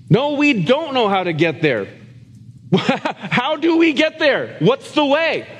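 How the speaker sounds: high, slow, laughing plea; amused mock bewilderment; laughing Thomas. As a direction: chuckle through the lost question. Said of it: "Thomas's question retold".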